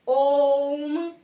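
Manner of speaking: ओम held long and loud on a steady tone; prolonged vowel. Shown as a demonstration. Teacher demonstrating the pluta vowel, long loud ओम. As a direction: sustain ओम like a chant, closing on the hum. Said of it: "कोई लंबी ध्वनि लगा के".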